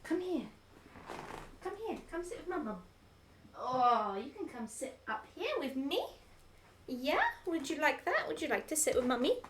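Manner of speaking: sweet mummy voice for the dog. Real, not acted. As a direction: coax the pet up onto your lap. Calling pet onto lap.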